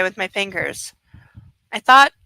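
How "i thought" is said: sobbing. A narrator's reading. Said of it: "she sobs".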